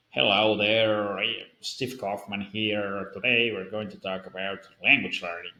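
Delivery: a light try at a North American YouTuber intro; Steve Kaufman American accent. Retold or imitated. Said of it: "it's weird for me to do an American accent".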